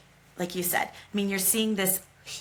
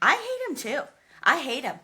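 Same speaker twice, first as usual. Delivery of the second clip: excited; 5 semitones higher than usual. Real, not acted. Gushing mutual hatred of Viserys.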